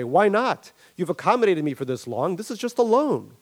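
a touch of indignant Barry; hurt Barry. Acted. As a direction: push back like a wounded old friend. Barry pushes back, hurt.

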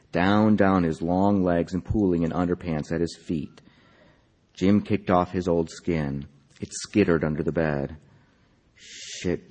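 measured literary reading, phrase by phrase; story narration. A narrator's reading. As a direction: read the story aloud with deliberate, lifted phrasing. Reads own story aloud.

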